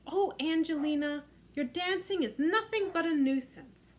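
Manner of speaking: a hint of an exasperated mother; exclaiming mother. Mother scolding Angelina over spilled milk, mild exasperated exclaim. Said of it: "exclaimed her mother".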